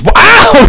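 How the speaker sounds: high, loud "ow" yelp; sudden sharp cry of pain. Acted. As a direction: yelp as if zapped. Acting out an electric shock.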